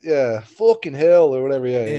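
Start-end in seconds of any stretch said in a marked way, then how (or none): 0.4-1.3 a quick mock Cockney curse; Cockney accent. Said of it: "like, a Cockney".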